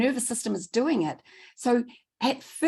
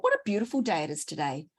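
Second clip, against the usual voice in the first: cheery inner thought; 2 semitones lower, 3 dB quieter, faster than usual. Shown as a demonstration. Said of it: "If we do a lovely thought".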